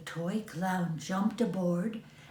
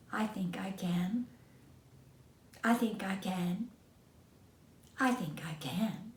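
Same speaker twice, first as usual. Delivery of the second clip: quiet resolve; 8 dB quieter than usual. Acted. Engine resolving to try, quietly.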